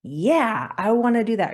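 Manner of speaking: gleeful, impulsive yes; eager inner voice. Acted. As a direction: play the inner voice that's all for it. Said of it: "hear that inner voice go".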